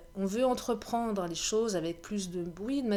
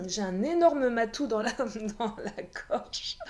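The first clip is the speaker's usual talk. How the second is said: hoarse frog in throat. Real, not acted. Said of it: "Je suis en train de muer".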